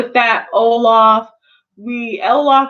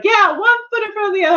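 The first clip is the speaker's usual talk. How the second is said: coworker's voice; 9 semitones higher, faster than usual. Retold or imitated. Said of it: "she was like".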